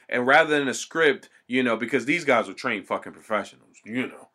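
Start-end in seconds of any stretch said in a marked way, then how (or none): 1.8-4.3 dry sarcasm in the usual voice; sarcastic. Real, not acted. Sarcastic aside to the listener about the actors. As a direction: say it so they know you don't mean it. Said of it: "I say that fucking sarcastically".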